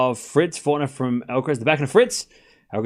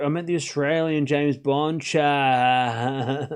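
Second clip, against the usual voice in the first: exasperated drawn-out plea; much slower than usual. Real, not acted. Exasperated correction to the chat.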